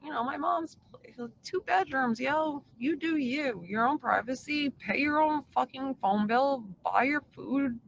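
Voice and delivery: eager pitch. Retold or imitated. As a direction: sell the deal like a buddy. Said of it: "And I was like".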